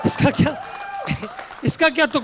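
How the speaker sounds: bursting out in disbelief; shouting out in disbelief at the mother's logic; incredulous outburst. Real, not acted.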